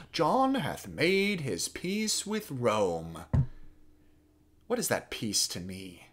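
slow, drawn-out challenge, dropping away; Louis the Dauphin. Acted. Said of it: "is to drive home and to remind and to underscore".

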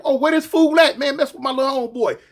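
on the hunt. Retold or imitated. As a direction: bark it out like you're out to find him. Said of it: "He immediately went on the hunt".

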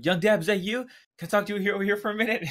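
retold cop yelling. Streamer retelling a cop hailing a rapper, mock yell. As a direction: imitate a cop hailing someone from across the street. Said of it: "you just hear a cop yelling".

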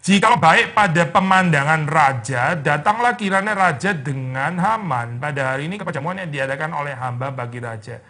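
slow, measured Bible reading; scripture reading. Acted. Preacher reading the verse to the congregation, slow and solemn. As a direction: read the verse slowly and solemnly.

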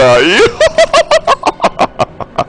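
high burst of laughter; laughing. Real, not acted. 앞서가며 웃음. (높게 터지는 웃음)

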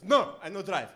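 mock stubborn cabbie; Bana. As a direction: refuse firmly as a foreign cab driver. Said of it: "He goes".

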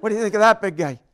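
laughing through the punchline. Real, not acted. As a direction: crack up while saying it.

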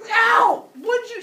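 high, loud yelp of pain; shocked, high-pitched protest; startled yelp. Acted. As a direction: cry out as if just slapped. Slapped character yelps in protest.

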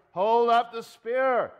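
drawn-out shouted command; called-out command. Acted. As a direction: holler the order, stretching the words. Acted order called out at night.

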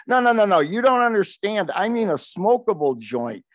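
smooth it over like a dealmaker; negotiating voice. Retold or imitated. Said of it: "went into my best negotiating voice while laughing to myself".

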